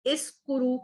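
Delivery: इस कुरु with a small stop on the s of इस; stop on the seen. Shown as a demonstration. Teacher shows students how इस कुरु stops on the s. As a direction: say इस कुरु holding the s, then कुरु. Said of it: "आप थोड़ा सा रुक रहे हैं".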